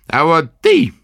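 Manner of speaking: high, slow crone's sneer; sneering old witch. A narrator's reading. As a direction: twist the mouth and scoff. Witch speaks.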